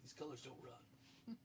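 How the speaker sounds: slow, soft, solemn mock vow; slow mock patriotic vow. Refusing the dare, slow mock patriotic declaration. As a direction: declare it slowly like a proud patriot.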